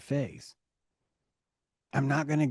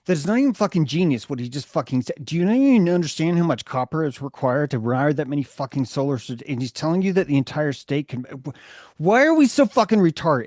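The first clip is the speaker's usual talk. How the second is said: angry rant; 3 semitones higher, 4 dB louder than usual. Retold or imitated. Ranting at Musk's listeners, fast and heated, building to a yell. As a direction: spit out the frustration faster and faster. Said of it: "I get really mad at Musk".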